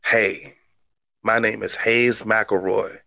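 deliberate mock-wrestler hype; wrestling promo. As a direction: cut a mock promo, drawing out the big phrases. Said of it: "forgot one part of the promo".

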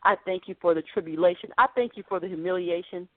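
mock pious thanks. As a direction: recite thanks he never would give. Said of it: "he didn't say".

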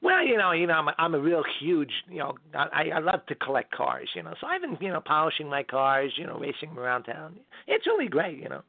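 lively talk-show comedian impression; chatty comic with swooping pitch; Jay Leno. Comedian answers host about life after the show, chatty impression. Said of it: "stopped doing The Tonight Show".

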